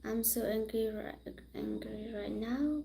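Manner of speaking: whispered apology; hushed, barely voiced sorry. Real, not acted. Apologising to a viewer in a whisper.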